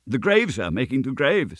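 high-pitched timid explanation; nervous stammer. A narrator's reading. Sexton explains his work to the goblin, stammering. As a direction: blurt it meekly, in a high voice. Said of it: "stammered the sexton".

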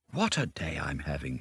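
soft, contented sigh of words; blissful contentment. A narrator's reading. Mole sighs in contentment.

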